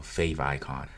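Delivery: "fav icon" with the word icon kept whole; alternative pronunciation. Shown as a demonstration. Instructor offering a third way to call it, "fav icon" pronounced with EYE-con. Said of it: "whichever way you wanna call it".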